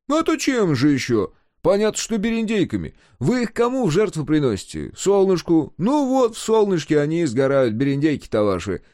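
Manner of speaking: high, loud, heated retort; loud, exasperated comeback; scornful explaining. A narrator's reading. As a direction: lecture him as if it were obvious. Carver mocked in acted quarrel.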